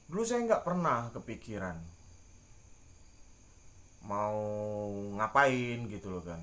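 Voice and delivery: talking around a cigarette; words slurred by a cigarette; cigarette in mouth. Real, not acted. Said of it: "Sambil merokok, Pak".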